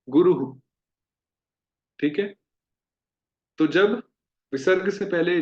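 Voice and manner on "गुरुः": गुरुः louder, with a firm "hu"; emphatic visarga. Shown as a demonstration. Teacher stressing the right गुरुः. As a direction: hit the ending of गुरुः as "guru-hu". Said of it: "हम बोलेंगे गुरुः".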